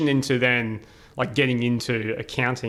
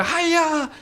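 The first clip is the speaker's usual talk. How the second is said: very high, loud scolding auntie call; shrieking auntie in Uncle Roger style; 5 dB louder, slower than usual. Retold or imitated. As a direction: yell across the shop like Uncle Roger. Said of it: "like Uncle Roger".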